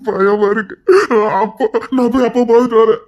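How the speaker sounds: sobbing fearfully between phrases; tearful, childlike pleading; crying like a child. Acted. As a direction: whimper it through tears. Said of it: "பச்சை பிள்ளை மாதிரி அழுதுகிட்டு".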